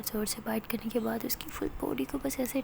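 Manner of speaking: soft breathy intimate story whisper; whispered narration. A narrator's reading. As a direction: draw the listener close, hushed. (धीमी फुसफुसाती कथा-वाचन)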